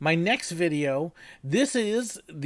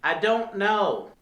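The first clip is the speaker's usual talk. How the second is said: deadpan dumb answer; 4 semitones higher, slower than usual. Acted. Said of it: "throw back really dumb answers".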